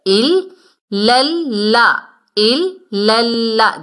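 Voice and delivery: ال لل لا with the ل held twice; doubled lam. Shown as a demonstration. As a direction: lean into the doubled ل. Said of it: "ہم دو مرتبہ پڑھ رہے ہیں". (تشدید والا لام)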